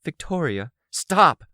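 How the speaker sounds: high, sharp call building to a shout. A narrator's reading. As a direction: raise your voice to cut someone off. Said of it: "I raised my voice".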